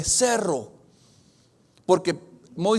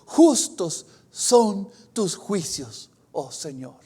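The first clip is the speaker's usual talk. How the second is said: slow, solemn proclamation of an angel; slow reverent angel voice; slower than usual. Acted. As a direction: pronounce it slowly like a heavenly herald. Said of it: "sale un ángel y dice".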